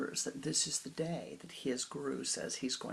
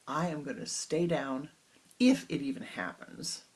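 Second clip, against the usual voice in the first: stubborn, a bit louder; defiant; 5 dB louder than usual. Acted. Disciple talking back to his guru, defiant. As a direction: challenge the guru, cheeky. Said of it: "this is not such a nice way to talk to your guru".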